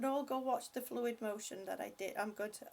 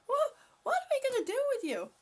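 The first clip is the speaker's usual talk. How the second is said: much higher, fast and squeaky through laughter; real laugh-cry pushing the words out; laughing helplessly at a viewer; 12 semitones higher, 4 dB louder, faster than usual. Real, not acted. Cracking up at Fireman.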